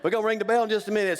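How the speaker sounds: quick laughing promise; fast and amused. Real, not acted. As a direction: rush it out with a chuckle.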